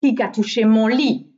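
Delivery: loud storybook middle-bear voice; Mehdi Ours. A narrator's reading. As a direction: middle bear's loud exclamation. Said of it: "s'excria à son tour Mehdi Ours".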